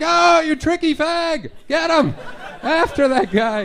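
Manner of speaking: high, loud hammed-up yelling; a high, loud, hammed-up shout to catch the intruder; mock frantic shout. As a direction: yell after the thief in mock panic. Mock chase, shouting after kidnapper.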